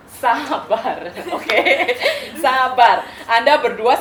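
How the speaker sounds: emphatic. Acted.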